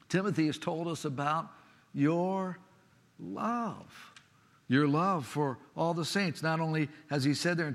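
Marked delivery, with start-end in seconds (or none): 1.9-4.1 tender emphasis. Shown as a demonstration. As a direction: linger on "your love" gently. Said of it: "tender repeat of scripture words".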